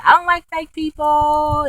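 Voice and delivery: high-pitched defiant imitation; mimicking Megan snapping back; mock defiant Megan. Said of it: "she was like".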